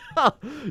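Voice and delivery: short, high-pitched burst of laughter. Real, not acted. Player amused at the game, brief high laugh. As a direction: let out a quick high laugh.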